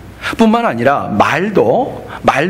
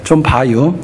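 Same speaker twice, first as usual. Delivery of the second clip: Chungcheong dialect; 4 semitones lower, slower than usual. Retold or imitated. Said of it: "충청도 분들은 또 간단해요".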